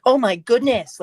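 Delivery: high, hammy "Oh my goodness"; exaggerated James. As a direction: overdo it like a vain engine. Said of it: "like season five".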